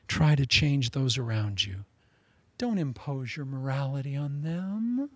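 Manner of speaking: slow, soft, coaxing tempter's tone; sly persuasion. Retold or imitated. Pharaoh softly coaxing Moses to give in. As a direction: lull Moses quietly into the deal.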